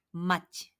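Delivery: 마치 slowly and clearly; slow demo. Shown as a demonstration. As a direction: model 마치 slowly. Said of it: "라고 합니다".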